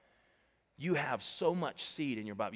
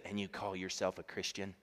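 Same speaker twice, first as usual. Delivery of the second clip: mocking accuser; 5 semitones lower, 7 dB quieter than usual. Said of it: "he says this".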